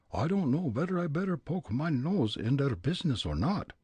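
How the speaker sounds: put-on high German-accented muttering. Fritz wondering whether to interfere, German accent. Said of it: "Fritz muttered".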